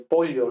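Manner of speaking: pollo as "polyo", with a palatal l; old Spanish ll. Shown as a demonstration. Teacher recalls elderly Spaniards, pollo with ly. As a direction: sound the ll of pollo as ly, not y. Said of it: "De la gente muy anciana".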